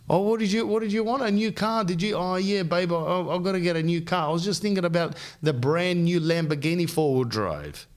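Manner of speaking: hammed-up high entitled voice; mock spoiled couple. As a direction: send up a pampered girlfriend, sing-song. Mocking a spoiled partner's dialogue.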